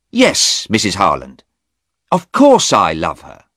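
woken too early and baffled; startled young man; surprised young man. Acted. Stephen voiced.

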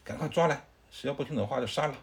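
the furious warlord demands the Taoist be seized; angry command. Acted. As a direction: bark the arrest order in a rage. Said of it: "孙策听了之后特别生气".

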